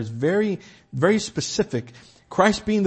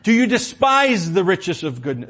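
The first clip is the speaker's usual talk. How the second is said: raised, louder challenge to the moralist; preacher voicing an urgent appeal, higher and louder; crying out; 4 semitones higher, 5 dB louder than usual. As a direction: cry it out as a pointed question. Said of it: "the Holy Spirit is crying out".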